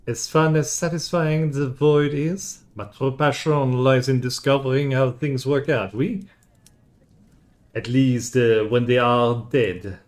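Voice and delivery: a void shaman from Paris, lightly French; French accent. Acted. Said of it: "I'm having a hard time changing in between accents".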